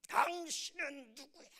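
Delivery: high, loud retold challenge; mock confrontational challenge. Angry parent challenges the pastor, acted indignant demand. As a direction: play an indignant man demanding identification.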